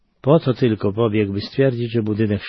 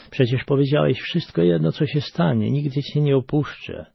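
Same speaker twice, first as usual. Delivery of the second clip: a hint of a young boy, higher pitched; lightly voiced child; 4 semitones higher than usual. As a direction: let a small boy's relief come through. Trapped son answers father.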